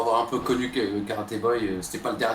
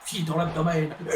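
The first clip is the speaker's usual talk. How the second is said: Ric Flair hype voice; 7 semitones higher than usual. Acted. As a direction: bellow it out like a wrestling announcer. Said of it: "il faut le commenter avec cette voix". (voix de commentateur criée, aiguë et lente)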